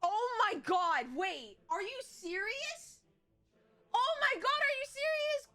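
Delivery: disbelief turning to delight; dawning joy. Real, not acted. Sees an incoming raid, disbelief.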